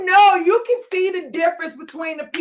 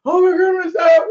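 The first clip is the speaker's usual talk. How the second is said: mock sleep-talk; 4 dB louder than usual. Acts out her sleep-talk again.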